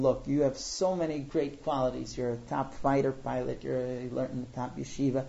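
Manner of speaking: retold gentle, diplomatic tone. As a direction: ease into it with soothing compliments. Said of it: "So very gently".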